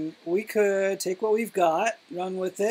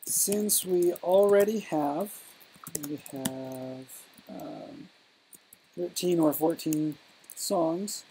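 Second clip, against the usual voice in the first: halting, with long pauses between phrases; drawn-out start, softening as it stalls; slow dictation. Real, not acted. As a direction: think it out slowly while writing. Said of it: "you're speaking too slow".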